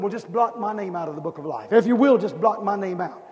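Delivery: a hint of humble Moses begging; pleading Moses. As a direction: beg quietly, resigned. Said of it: "Moses said".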